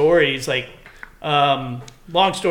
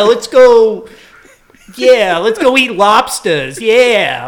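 mock excitement; 6 semitones higher, 9 dB louder, slower than usual. Excited joke about lobsters.

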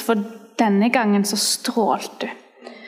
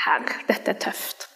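slow hushed whisper; slow whispered prayer in the moment; inner prayer whisper; 3 semitones lower, 7 dB quieter, slower than usual. Retold or imitated. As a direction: breathe it as a private prayer. Inner prayer on seeing woman.

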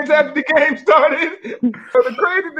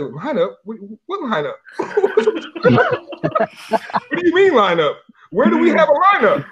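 mock baffled; 3 semitones higher than usual. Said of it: "He's like".

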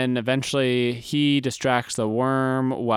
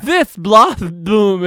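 shouted battle cry; 7 semitones higher, 8 dB louder, much slower than usual. Retold or imitated. Acting Ren's flying kick.

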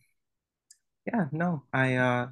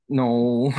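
firm no; 6 dB louder than usual. Retold or imitated. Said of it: "And I said".

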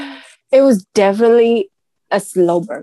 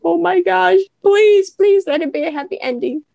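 retold plea; 10 semitones higher than usual. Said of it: "I was like".

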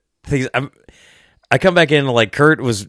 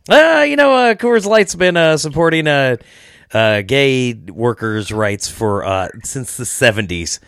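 mock know-it-all; slower than usual. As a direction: parody a smug explainer, stretching it out. Mock lecturing about Coors history.

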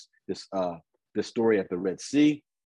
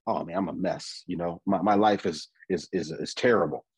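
mock self-pity; 5 semitones lower than usual. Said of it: "you start feeling like".

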